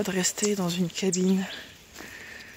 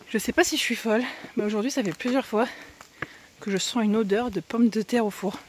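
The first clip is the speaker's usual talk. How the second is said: puffing between words while hiking; out of breath, blowing hard. Real, not acted. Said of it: "vous allez m'entendre souffler".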